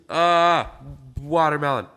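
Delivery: fighting off a sneeze; talking through a held-back sneeze; holding back a sneeze. Real, not acted. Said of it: "I'm trying not to sneeze".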